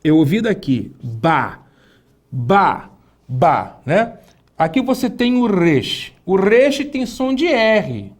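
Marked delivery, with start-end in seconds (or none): 1.0-3.8 Ba said lower and crisp each time; teacher answering for the class; syllable sounding. Shown as a demonstration. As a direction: repeat Ba like a drill. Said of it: "B com A faz o quê?".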